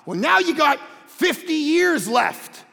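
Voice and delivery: punchy, emphatic sermon delivery; preaching. Real, not acted. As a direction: preach it to the room, driving each point home. Preaches to congregation.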